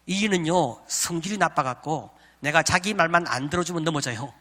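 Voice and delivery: laughing wife. Retold or imitated. Wife mocks him to friends.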